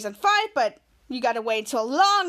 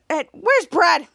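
louder, punchy acted question; urgent question; 5 dB louder than usual. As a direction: call out as if searching. Retold character looking for missing Brad.

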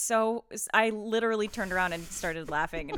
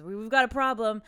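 put-on kid voice; 3 semitones higher, 6 dB louder than usual. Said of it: "Susie just goes".

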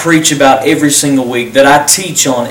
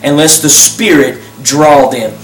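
earnest, unhurried prayer voice; leading a prayer. Acted. Pastor leading viewers in a salvation prayer, earnest and unhurried.

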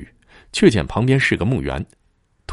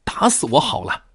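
ghostly cry; 10 semitones higher than usual. Acted. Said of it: "有人叫喊".

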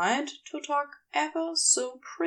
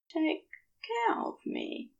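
higher and softer, almost pleading; softest tone; 6 semitones higher, 6 dB quieter than usual. Acted. Aziraphale remembered asking Crowley, soft and tender. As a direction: ask it as tenderly as you can. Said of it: "in the softest tone".

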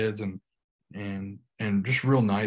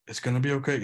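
calm reassurance; 3 semitones higher, faster than usual. Retold or imitated. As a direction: hold the child and calm him. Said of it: "He remained calm".

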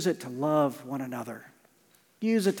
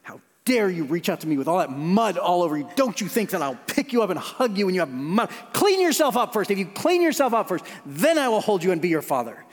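mock scolding father; 2 semitones higher than usual. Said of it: "do you think I went".

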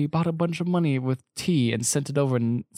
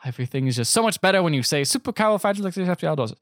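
raised, carefree mock outburst; giddy abandon; 5 semitones higher, faster than usual. Banker throwing caution away after his firing, giddily carefree. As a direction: let it rise and tumble out.

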